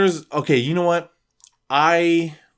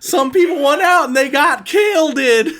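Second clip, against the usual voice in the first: high, far put-on voice of a panicked young store manager, louder; nervous young manager; 6 dB louder than usual. Pimply new manager tells customer about the mist, high nervous voice. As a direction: squeak it out like a clueless kid manager.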